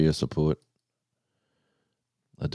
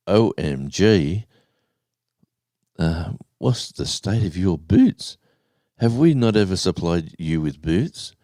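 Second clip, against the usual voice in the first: retold shock; 3 semitones higher, 3 dB louder than usual. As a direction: imitate her appalled at the sight. Retold shock at worn boots.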